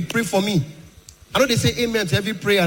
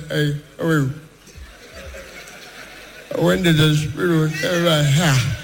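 calm Buhari voice; 3 semitones lower than usual. Retold or imitated. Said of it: "calmest voice".

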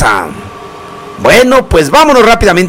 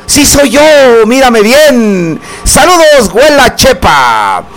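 mock old lady Huela Chepa; 4 semitones higher than usual. DJ imitates the old lady greeting him on the street, hammed-up and higher. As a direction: play the old neighbour calling out to the DJ, slowed and stretched.

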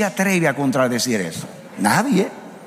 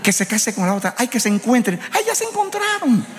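mock soap-opera fan; 5 semitones higher than usual. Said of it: "usted está diciendo".

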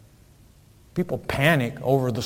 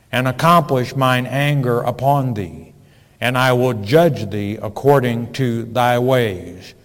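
scripture reading. Acted. Reads scripture loudly.

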